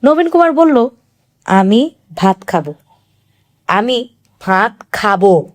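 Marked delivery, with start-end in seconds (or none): 1.4-5.5 weak plea. A narrator's reading. Sick husband pleading again.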